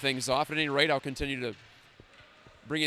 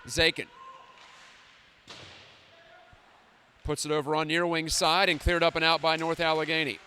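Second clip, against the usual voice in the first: hockey play-by-play. Acted.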